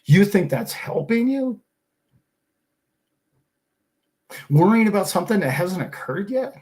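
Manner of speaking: incredulous, rising questions; worked up. Real, not acted. Scolding a friend for worrying about war, getting worked up. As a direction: scoff with mounting exasperation. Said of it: "now I'm getting worked up".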